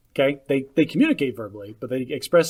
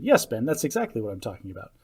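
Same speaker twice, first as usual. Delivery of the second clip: lower, measured patient reply; mildly put-on patience, voice settling lower; patient explanation; 4 semitones lower, 4 dB quieter than usual. Shown as a demonstration. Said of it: "Patient explanation".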